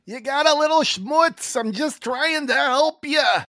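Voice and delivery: put-on high, slow Filipino-accented voice. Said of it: "That was an amazing Filipino accent".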